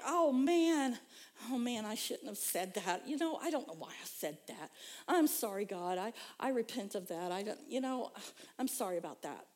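a hint of a sorry confession to God; mock contrition. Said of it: "I'm like".

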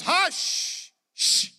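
shushing crowd. Acted. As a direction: hush him like an annoyed crowd. Crowd shushing the blind man.

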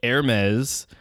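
HERMES as air-MEZ, silent H; French pronunciation. Shown as a demonstration. Recapping for listeners, HERMES as air-MEZ. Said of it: "so it's Hermes".

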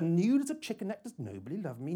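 a touch of a mother crying out, high on nude; lightly voiced mother, warm cry; widowed mother's voice. Bedroom assistant sounding like her widowed mother, mild warm cry. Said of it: "cries out warmly".

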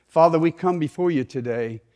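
earnest, measured closing prayer; congregational prayer. Real, not acted. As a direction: pray aloud on behalf of the congregation.

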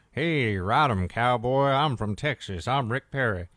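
lightly voiced Texan cowboy, folksy; a hint of a hammed-up Texas cowboy; mock Rick Perry. Host lampooning the newspaper's take on Perry, light folksy cowboy voice. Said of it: "This is the caricature they're doing of him".

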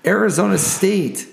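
announcer voice. Acted. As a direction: hype each matchup like a ring announcer. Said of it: "my announcer voice".

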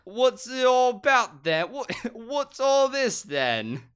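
very high, drawn-out comic squawk; Jonathan Adams, hammed up. Actor questions his agent, hammed-up high reading. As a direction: push it way up high, breaking into laughter. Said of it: "John, you can be Jonathan Adams".

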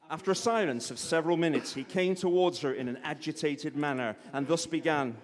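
lightly put-on American accent for narration; vaguely American. Reading Austen to a live audience, vaguely American accent. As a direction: read it out in a rough American accent. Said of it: "Is this American or Cornish?".

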